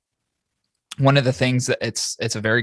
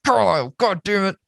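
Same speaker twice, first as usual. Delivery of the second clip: alarmed; 8 semitones higher, slower than usual. Retold or imitated. His alarmed reaction in truck.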